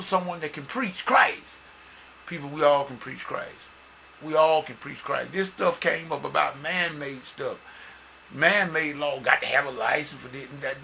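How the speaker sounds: animated, emphatic sermon delivery; preaching. Real, not acted. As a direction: drive the point home to the congregation.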